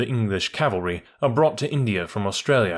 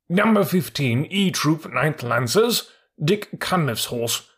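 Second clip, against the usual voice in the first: soldierly horse; 5 semitones higher, slower than usual. Acted. Horse reports himself.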